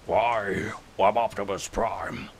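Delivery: lightly voiced noble robot leader; a hint of a commander introducing himself; mild Optimus Prime impression. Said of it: "How about this one?".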